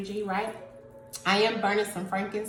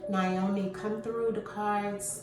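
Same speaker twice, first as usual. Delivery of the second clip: spirit invocation; 5 dB quieter than usual. Real, not acted. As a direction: gently call the spirit through, trailing softer.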